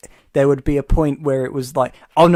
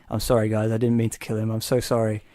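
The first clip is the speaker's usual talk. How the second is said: lower, mock remorseful apology; serious apology; 5 semitones lower than usual. Retelling a character's apology after the killing, mock remorse. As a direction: play it lowered and sorry, half-hearted. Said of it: "it starts off all serious".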